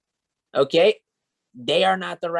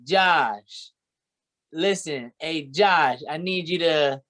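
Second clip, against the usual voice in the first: light imitation of a pushy colleague; lightly voiced eager recruit calling his boss; a hint of Adarian pleading; imitating Adarian. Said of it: "That's how he sounds".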